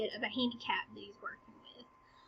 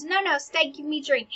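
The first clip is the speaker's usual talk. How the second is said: louder, raised cut-in; interrupting; 4 semitones higher, 5 dB louder than usual. Acted. King stopping the duel for a drink, interrupting. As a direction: break in to halt the action. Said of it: "the king interrupts".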